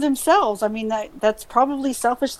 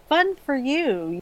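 slow, dry sarcasm; mock-congratulatory, slightly slowed; sarcastic; 3 semitones higher, 4 dB quieter, slower than usual. Real, not acted. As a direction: say it drawn out, not meaning it. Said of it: "that's sarcasm".

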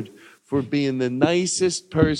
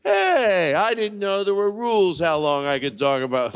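mock indignation; 4 semitones higher than usual. Mock protest at friend's rule.

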